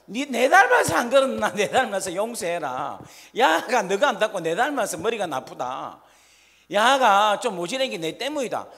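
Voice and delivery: loud, laughing doting grandma; indulgent grandmother. Retold or imitated. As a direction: laugh it off and take the blame like a grandma. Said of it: "할머니는 뭔가 하면 약점을 갖고".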